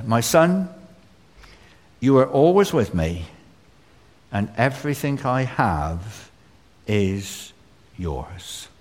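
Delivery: gentle, fading to a hush at the end; a loving father reassuring his son; father tenderly comforting his resentful son. Retold or imitated.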